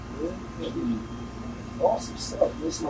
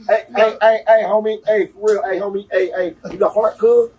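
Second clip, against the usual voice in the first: imitating LA gangster; 5 semitones higher than usual. Imitating LA gang greeting.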